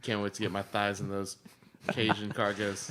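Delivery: slow, soft, low seductive murmur; sultry low purr. Acted. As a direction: breathe it like a come-on. Sultry mock ad line.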